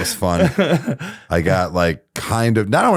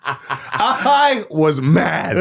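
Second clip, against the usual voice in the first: ordinary talk, nothing marked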